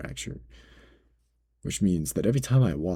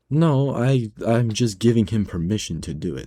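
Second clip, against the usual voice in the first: higher, louder defensive manager; quick justifying voice, pitched up; Ben's reply; 4 semitones higher, 6 dB louder than usual. Retold or imitated. Manager defending himself to customer, higher and louder. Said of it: "Ben goes".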